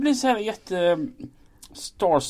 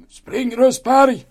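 drawn-out pretend command; raised, put-on officer voice; mock shouted order; 3 semitones higher, 5 dB louder, much slower than usual. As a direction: bellow it slowly as a drill order. Imagines an order shouted at himself.

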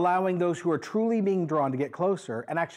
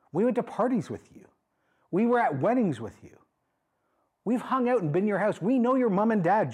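higher, insistent mock protest; acting out an indignant objection; indignant crowd protest; 5 semitones higher than usual. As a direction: press each point like an offended old friend. Acts out indignant crowd challenging Jesus.

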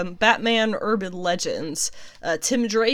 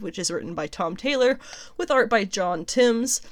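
news reporter voice. Pretend. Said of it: "It's my best news reporter voice".

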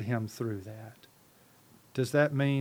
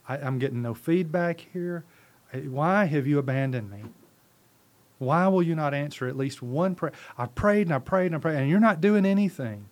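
frustrated pleading; 2 semitones higher, 4 dB louder than usual. Acted. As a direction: build from complaint to heated protest. Acts out frustrated prayer to God.

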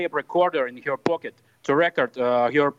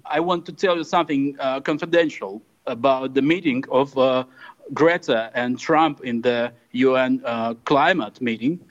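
put-on Russian accent; 2 semitones lower than usual. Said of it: "slipped into straight up Russian".

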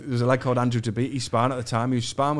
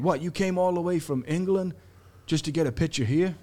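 incredulous guard, pitched higher; lightly acted higher-voiced disbelief; big security guard; 5 semitones higher than usual. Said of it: "his big security guard".

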